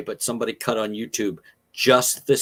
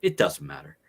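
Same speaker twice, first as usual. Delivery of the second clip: quiet shrug; 7 semitones lower, 5 dB quieter than usual. Retold or imitated. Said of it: "he goes, he smiles".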